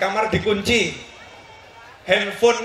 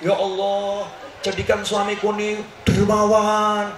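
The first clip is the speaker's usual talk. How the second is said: mock pointed prayer. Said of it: "ibu doanya begini".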